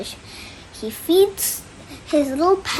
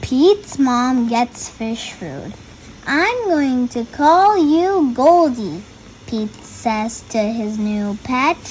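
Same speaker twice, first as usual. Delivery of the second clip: put-on reading to children; slower than usual. A narrator's reading. Reads the picture book aloud.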